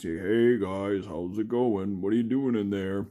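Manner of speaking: lightly voiced peeking doorway puppet; a hint of a sneaky friendly puppet calling in; Lester voice. Hand puppet Lester peeking into the kids' room, lightly voiced friendly call. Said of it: "and he would talk like this".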